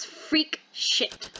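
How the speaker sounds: hushed, breathy aside; a whispered sneer; whispered disgust. Acted.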